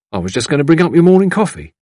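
a touch of eager servant; lightly voiced servant. A narrator's reading. Servant offering morning coffee to his mistress, lightly voiced.

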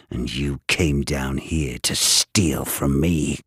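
bitter venomous rant; spat-out rant. Acted. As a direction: spit the words out in a long tirade. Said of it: "spat out in a long, breathless rant".

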